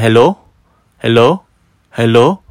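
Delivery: loud, unsure calls into the silence; calling out. Retold or imitated. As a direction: call out to find who's there. Calling into empty toilet.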